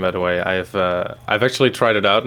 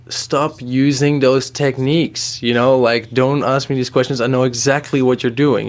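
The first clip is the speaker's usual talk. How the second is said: mildly exasperated, higher-pitched protest; retold annoyance; 4 semitones higher than usual. Host imitates partner objecting to techniques, mildly annoyed. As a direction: push back firmly, a touch fed up.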